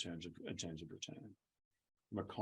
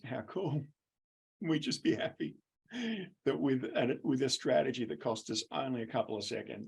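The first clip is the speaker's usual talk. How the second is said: higher, louder mock-enthusiastic school voice; 5 semitones higher, 5 dB louder than usual. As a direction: cheer it like a delighted staffroom.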